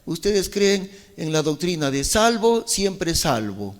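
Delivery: a hint of scoffing mimicry; mocking quote. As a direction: poke fun at the doctrine lightly. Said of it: "Se burlan".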